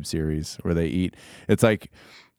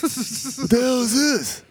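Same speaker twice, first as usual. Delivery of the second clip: high, slow Texan growl; Stone Cold impression; slower than usual. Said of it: "talking like Stone Cold".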